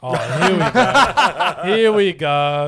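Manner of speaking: laughing. Real, not acted. Laughing slow reply.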